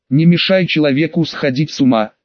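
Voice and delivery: usual speaking voice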